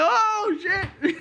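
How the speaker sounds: very high mock scream; startled yelp. Man jumps back from the iguana, startled yelp. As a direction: re-enact jumping back, cracking up. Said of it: "like, I jumped back".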